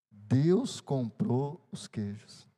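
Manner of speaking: Deus comprou os queijos, drawn out very slowly word by word; slow emphatic. Shown as a demonstration. Pastor repeats the punchline to the church, very slow and solemn.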